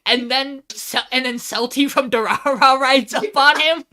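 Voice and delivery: high, loud, thrilled recap; excited retelling. Real, not acted. Recapping the van ambush for a co-host, high excited retelling. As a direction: gush loudly about the wild twist.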